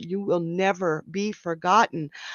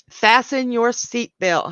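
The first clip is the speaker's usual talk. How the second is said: excited; 4 semitones higher, 6 dB louder than usual. Real, not acted. Excited prediction to caller.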